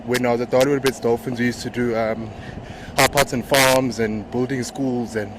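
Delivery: breathless from riding; talking while catching breath. Real, not acted. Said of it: "Sorry, I'm a bit out of breath".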